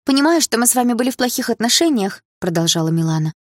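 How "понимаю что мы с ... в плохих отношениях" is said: put-on high-pitched sympathetic girl; simpering condolences. A narrator's reading. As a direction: gush condolences in a raised voice. Milana's showy condolences continue. (приторное сочувствие)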